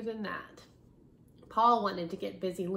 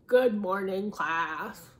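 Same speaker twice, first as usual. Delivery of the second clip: grumpy voice; 2 semitones lower, 5 dB louder, slower than usual. Shown as a demonstration. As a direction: really grumble the hello. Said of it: "Is that a good grumpy voice?".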